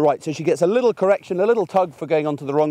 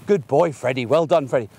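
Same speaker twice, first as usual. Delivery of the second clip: a hint of a dog owner repeating the name over and over; nagging owner. Owner in the park calling their dog, lightly mimicked nagging. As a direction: mildly mimic a frantic owner calling again and again. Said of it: "They're saying".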